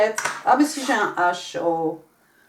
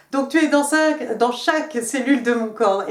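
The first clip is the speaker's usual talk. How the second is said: higher and louder, gushing French version; dramatic translation; 4 semitones higher, 7 dB louder than usual. Acted. Tarot reader translates the card for viewers, gushing and dramatic. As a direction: keep the swooning love-letter drama in French. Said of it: "en français, c'est pas mieux".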